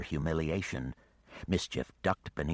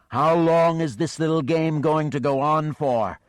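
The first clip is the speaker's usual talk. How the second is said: louder, much higher hammed-up weariness; mock weary dragon; 9 semitones higher, 9 dB louder than usual. The dragon mocks Geneva's attacks with hammed-up weariness. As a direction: sigh it out like a bored monster. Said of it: "putting on a show of weariness".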